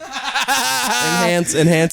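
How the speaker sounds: high mock TV detective; CSI enhance command. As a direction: call out enhance. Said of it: "C S I analytics being like".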